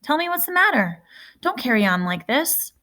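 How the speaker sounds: put-on alarmed brother finding the boy soaked; older brother Caleb startled. A narrator's reading.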